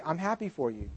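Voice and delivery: soft, understated reply; quietly glad for a friend; gentle congratulation. Retold or imitated. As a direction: say it softly and sincerely. Friend's kind reply, retold.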